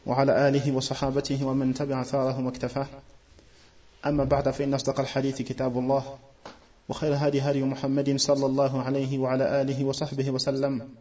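rapid, even recitation of a set formula; fast formulaic Arabic recitation; opening Arabic invocation. Real, not acted. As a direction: recite the opening praise briskly from memory.

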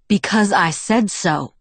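slow, stern parental comeback; stern insistence. A narrator's reading. Father answers his daughter's challenge, slow and stern. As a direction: pull rank, word by word. Father pulls rank in quarrel.

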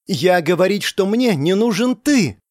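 put-on a young woman snaps back at an unwanted suitor. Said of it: "повысила она голос". (с повышенным голосом, с нажимом на «ты»)

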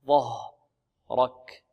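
"ظهرك" drawn out with a heavy emphatic zha; slow recitation. Shown as a demonstration. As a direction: stretch "ظهرك" slowly, tongue out for zha. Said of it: "لا نقول ظه". (نطق "ظهرك" ببطء وتفخيم الظاء)

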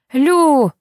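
high, loud call up at the window; shouting a name. A narrator's reading. Boy calling up at the window, loud shout. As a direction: call her name out into the rain. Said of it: "кричу под её окном".

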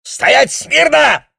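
very high, loud, slow bark; an officer roaring at the frightened girl; barked order. A narrator's reading. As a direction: bark a drill command. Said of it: "рявкнул Хакки".

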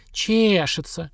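тянет «Чешется» выше, насмешливо; передразни с издёвкой; передразнивая. Acted. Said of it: "передразнила женщина". (передразнивая «Чешется»)

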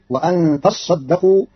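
تصدقوا with a doubled sad, slow; Qalun reading. Shown as a demonstration. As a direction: say تصدقوا as tassaddaqu with a long ss. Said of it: "فتصير".

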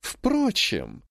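high, deliberate and scheming; sly repeat. A narrator's reading. Grandmother repeats it to the emperor, scheming. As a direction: savour the word like a plan. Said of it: "повторила она".

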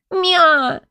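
высокое кошачье «мя» с досадой; мяукнуть с обидой; досадливый мяв. Acted. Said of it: "сказала с досады". (кошка досадует: высокое «мя»)

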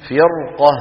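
فرقة recited slowly with a heavy ra; heavy ra recitation. Shown as a demonstration. Teacher reciting the word for students, heavy ra. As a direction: stretch فرقة, ra thick. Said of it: "وبعدها حرف استعلاء غير مكسور".

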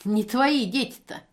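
a mocking smirk in the voice. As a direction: say it with a sneer. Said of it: "усмехнулась женщина". (с усмешкой, насмешливо)

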